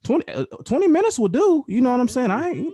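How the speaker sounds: squeaky high, smug lady voice; high mock satisfied woman. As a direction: play her pleased with twenty minutes. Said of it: "so she can be like".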